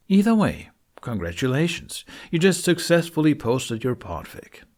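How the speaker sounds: cheerful congratulations. Real, not acted. Host congratulating new podficcer, excited and high. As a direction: congratulate the listener with a burst of joy. Celebrating the finished upload.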